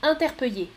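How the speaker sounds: interpeller as "in-ter-peu-yé"; Y glide replacing L in interpeller; third variant. Shown as a demonstration. Teacher offers choice three, interpeller with Y. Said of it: "trois prononciations possibles".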